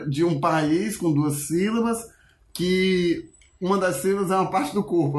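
slow quiz-show question; radio quiz host. Retold or imitated. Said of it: "E a outra era".

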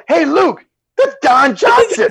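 very high, drawn-out excited shout; retold starstruck call. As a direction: call a teammate over, starstruck. Retold calling out to teammate.

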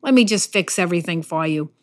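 pat him on the head with your voice; mock pity. Pastor imagining God pitying Elijah, mock soothing. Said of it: "pity agreement tap on his shoulder".

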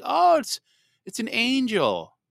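put-on high, sweet toddler voice, slowed; a small child innocently naming an angel; little daughter's voice. Dad imitating his little daughter describing the angel on the monitor, high and sweet.

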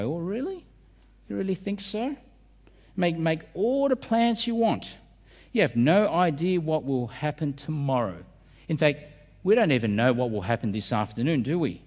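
a hammed-up scoff at proud plans. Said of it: "with a scoff".

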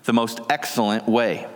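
measured, solemn reading of scripture. Acted. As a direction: reverent pulpit reading. Reads 1 Corinthians 13 aloud.

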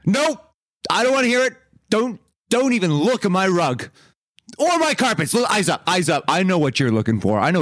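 high-pitched, theatrical indignation; huffy refusal. Acted. Guarding the rug from madam, huffy refusal. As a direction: cut them off in a hammed-up huff.

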